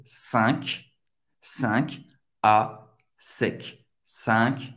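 "Cinq" as one nasal syllable, sɛ̃k; French pronunciation. Shown as a demonstration. Teacher drilling the French number, French pronunciation. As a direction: separate slow, nasal "Cinq" from "à sec". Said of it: "Cinco em francês".

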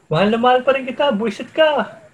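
high, fast, loud yelled endearment; mock furious love line. Cohost yelling love and an insult at a spouse, fast high mock shout. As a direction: spit out I love you with an insult. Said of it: "Akala ko".

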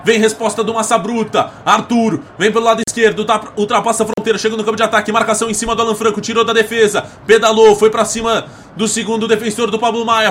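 fast, soft radio play-by-play. Acted. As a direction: race through the attack.

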